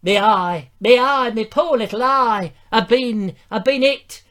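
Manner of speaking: high, hammed-up cries of pain; wounded King Harold. King hit in the eye at battle, comic high wailing. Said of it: "so that he could go".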